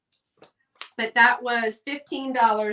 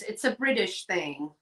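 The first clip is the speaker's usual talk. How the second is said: light mock British accent on a British thing; a quick, badly done British accent; 4 semitones lower, 5 dB quieter than usual. Shown as a demonstration. Seller explaining clotted cream, in a light mock British accent. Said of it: "Why do we say British thing in a British accent".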